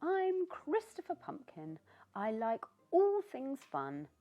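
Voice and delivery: high, bright-hearted pumpkin voice; a cheerful pumpkin greeting everyone; cheery pumpkin. Acted. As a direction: play a jolly friendly pumpkin. Pumpkin determined.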